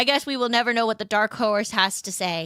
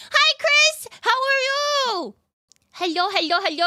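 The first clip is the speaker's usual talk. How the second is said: high sing-song greeting; 14 semitones higher, 3 dB louder than usual. Pretend. Streamer greets a chatter, in a high sing-song voice. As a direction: greet him like a cutesy mascot.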